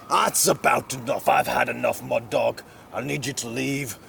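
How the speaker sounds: stern barkeep. Acted. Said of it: "barkeep scolds".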